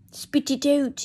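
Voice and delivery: a light Irish lilt on Spit it out, repeated on purpose; Irish accent. Shown as a demonstration. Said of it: "Yes, it's Irish".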